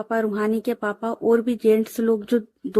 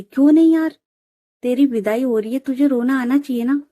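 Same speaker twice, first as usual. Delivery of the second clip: playful insisting; 3 semitones higher, 5 dB louder than usual. Acted. Friend insists the bride should cry at her farewell, mock-indignant. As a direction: push her, half joking, to cry.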